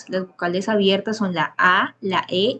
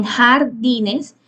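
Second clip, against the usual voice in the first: syllable demo slow; 2 semitones higher than usual. Shown as a demonstration. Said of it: "jar y ne serían las sílabas átonas".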